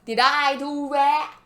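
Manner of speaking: slow, drawn-out mock innocence; The Rock. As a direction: ask it slowly, feigning innocence. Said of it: "He's like".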